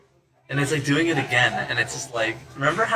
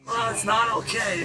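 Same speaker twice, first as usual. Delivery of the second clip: put-on voice pitched well up; high acted voice; 9 semitones higher than usual. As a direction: pitch the whole protest up high. Acted line, later echoed low.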